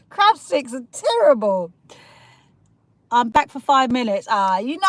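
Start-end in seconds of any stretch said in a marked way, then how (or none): 0.1-1.7 giggling through the complaint; real laughter about crab sticks; laughing disgust. Real, not acted. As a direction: laugh it out in mock horror.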